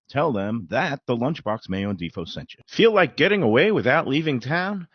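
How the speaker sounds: upbeat radio ad delivery; ad read. Acted. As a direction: sell it like a sponsor spot. Host reads a restaurant ad.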